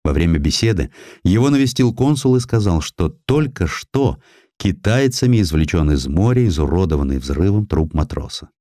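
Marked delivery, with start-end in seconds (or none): none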